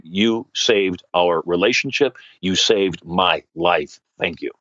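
slow, low, deeply grateful; tears of joy. Retold or imitated. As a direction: imitate heartfelt thanks, word by word. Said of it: "in tears of joy".

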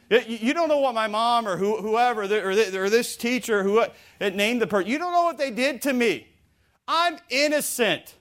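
mock-aggrieved church member; indignant protest. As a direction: protest your innocence, drawing out the last words. Voicing someone protesting their innocence.

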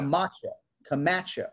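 Camacho with the MA hit, rising; Camacho, second syllable stressed. Shown as a demonstration. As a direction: lean on the middle of Camacho. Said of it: "emphasizing that second syllable".

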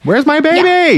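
put-on high, loud, panicked cry for the baby; frantic wail. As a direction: shriek it like a frantic father. Voices distraught Luo Ji.

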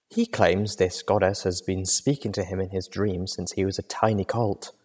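softly voiced, measured companion; soft-spoken Velvet Remedy. Velvet relays the preacher's claim to Little Pip, softly and measured. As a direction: report it softly, with reserve.

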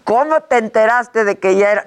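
muffled through a mask; talking behind a face mask. Real, not acted. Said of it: "No puedo hablar con el cubrebocas". (hablando con cubrebocas)

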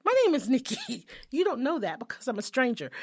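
high, loud, sugary greeting; mock-polite phone call. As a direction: play politely tattling to his mother. Imagined call to man's mother.

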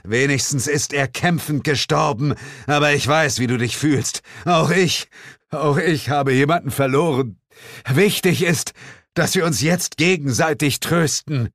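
high, hammed-up consoling voice; a falsely grieving friend; mock solemn comfort. Comrade consoles the narrator over a fallen friend, hammed-up.

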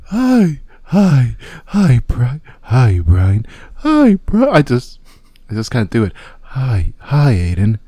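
lightly voiced seductive woman; breathy come-on, barely put on; female catfish voice. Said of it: "your best female catfish voice".

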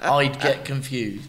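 echoed through a laugh; mocking laughing echo. Real, not acted.

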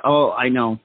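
usual speaking voice

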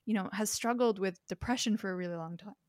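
talking through hiccups; hiccuping mid-sentence. Real, not acted. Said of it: "Excuse me, I've got the hiccups".

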